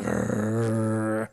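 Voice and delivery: a rapper's growl. Retold or imitated. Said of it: "he was like".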